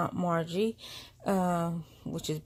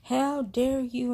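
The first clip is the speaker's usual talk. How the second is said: higher-pitched mock outrage, not shouted; mad sister; 6 semitones higher than usual. Sister scolding her over the baby, mock angry. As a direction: imitate an offended sister, pitched up. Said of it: "my sister was mad".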